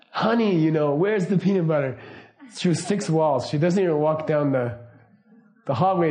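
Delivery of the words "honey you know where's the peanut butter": mildly raised retold yell; mock yell. Wife calls to husband through six walls, mild mock yell. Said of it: "she just yells".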